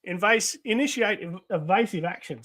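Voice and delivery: lightly acted military call; comic-book combat voice.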